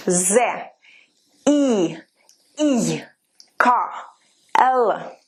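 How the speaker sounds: each letter alone, pause after it; letter-by-letter recitation. Shown as a demonstration. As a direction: model the alphabet slowly, one sound at a time. Teacher demonstrates the alphabet letter by letter.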